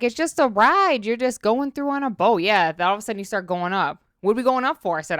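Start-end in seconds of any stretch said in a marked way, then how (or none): 0.0-2.4 mock casual reassurance. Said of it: "I'm like".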